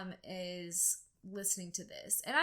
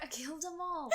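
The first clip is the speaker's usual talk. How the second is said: attempted Irish accent; 7 semitones higher than usual. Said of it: "That was a little bit Australian".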